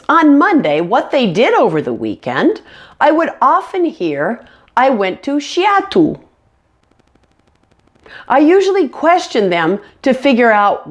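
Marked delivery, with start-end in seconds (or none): 4.8-6.2 SEATTLE muddled so it sounds almost like "theater"; imitated student mispronunciation. Teacher mimicking students' weekend answer, muddled pronunciation. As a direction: mimic a learner's unclear SEATTLE, close to "theater". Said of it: "seem to pronounce exactly the same way".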